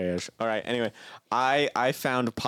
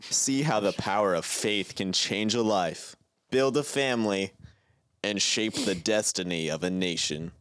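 ad read. Shown as a demonstration. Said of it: "I'm gonna read some of this".

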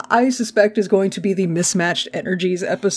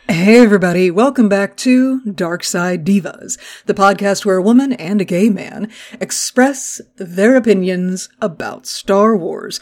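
podcast intro. Acted. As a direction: announce the show like a host. Podcast intro host read.

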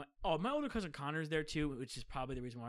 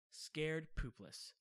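drawn-out emphasis; 5 dB quieter, much slower than usual. Real, not acted. Describing his childhood fear, drawn out.

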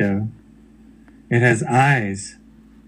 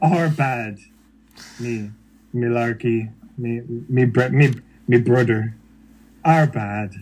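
bad Irish accent; 2 semitones lower than usual. Apologizing for the Irish people, bad Irish accent. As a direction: fumble through a fake Irish brogue. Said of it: "a bad version of our accent".

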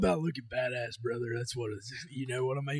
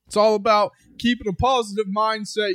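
put-on babyface wrestler promo; 5 semitones higher than usual. Mocking a babyface wrestler's promo to kids. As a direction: preach to the kids like a clean-cut hero. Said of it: "you got some baby face up there going".

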